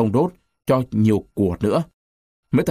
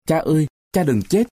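higher-pitched plea, only a touch of tears; understated sobbing plea; 5 semitones higher than usual. A narrator's reading. Child begging wounded father not to die, mildly tearful plea. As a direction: plead gently as if tearful, pitched up. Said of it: "khóc nức nở".

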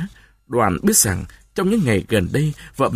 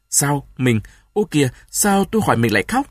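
urgent questioning; 3 semitones higher than usual. Acted. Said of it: "Đoàn cúi xuống hỏi vợ dồn dập".

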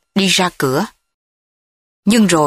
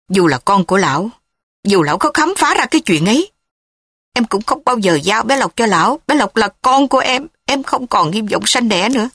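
firm, resolute; 3 semitones higher than usual. Acted. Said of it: "Thúy nói giọng quả quyết".

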